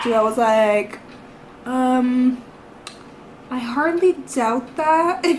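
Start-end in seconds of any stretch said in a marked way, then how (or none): 1.7-5.2 mock-sarcastic drunk reply. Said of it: "all drunk as fuck".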